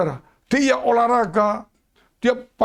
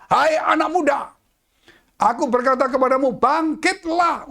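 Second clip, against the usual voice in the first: commanding call; 4 semitones higher than usual. Acted. Jesus commands the dead.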